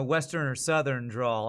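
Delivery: ordinary delivery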